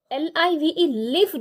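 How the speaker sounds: लिव said short, rhyming with give; the verb live, short vowel, "liv"; pronounced liv. Shown as a demonstration. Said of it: "प्रोनंसिएशंस फिर से ध्यान से सुनिए".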